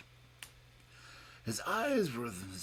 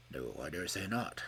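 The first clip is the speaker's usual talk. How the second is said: with asperity; 8 semitones lower, 5 dB quieter than usual. A narrator's reading. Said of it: "said the Professor with asperity".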